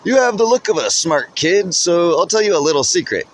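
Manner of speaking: high, loud voice muffled by a mask; loud but muffled. A narrator's reading. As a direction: talk loudly through a mask. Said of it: "Still loudly, but muffled".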